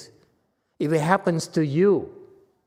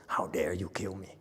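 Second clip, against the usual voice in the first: dying man's protest; 7 semitones lower, 11 dB quieter than usual. Retold or imitated. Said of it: "he says".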